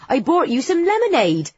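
put-on high-pitched West Country farm girl; hammed-up West Country lilt; broad West Country accent. A narrator's reading. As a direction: offer it in thick West Country. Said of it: "in my broadest West Country accent".

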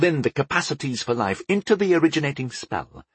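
a hint of an enthusiastic young spellcaster; lightly voiced young enchanter. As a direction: lightly play an enchanter musing on his craft.

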